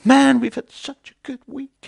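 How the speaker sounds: high, loud American gold-miner gush; excited American miner. Retold or imitated. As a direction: gush like a thrilled American prospector. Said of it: "they have funny accents".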